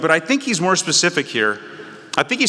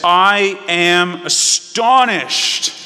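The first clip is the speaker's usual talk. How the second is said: astonished; 2 semitones higher, 4 dB louder, much slower than usual. Retold or imitated. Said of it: "He says".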